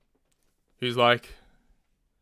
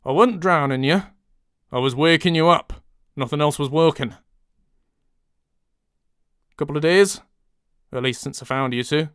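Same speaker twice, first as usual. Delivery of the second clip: northern English accent; different accent. Shown as a demonstration. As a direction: broader northern vowels. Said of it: "monologuing in different accents".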